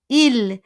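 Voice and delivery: IL stressed as a clear "eel"; careful pronunciation. Shown as a demonstration. Teacher warns learners not to confuse pronouns, careful IL. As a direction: punch IL with a long ee. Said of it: "Be careful with your pronunciation".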